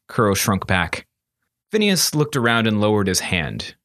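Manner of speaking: usual speaking voice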